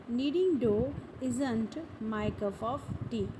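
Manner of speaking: slow, deliberate teacher model sentence. Shown as a demonstration. Teacher modelling a sentence slowly for learners. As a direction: say it slowly so students can repeat. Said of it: "तो हम बोल सकते हैं".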